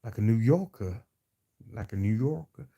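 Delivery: attempted New Yorker accent. Shown as a demonstration. Host trying out a New Yorker accent for viewers. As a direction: try on a New Yorker's speech. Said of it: "I can try to talk like a".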